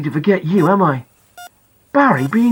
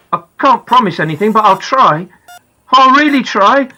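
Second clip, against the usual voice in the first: desperate father; 3 semitones higher, 4 dB louder than usual. Acted. Father begs comatose son.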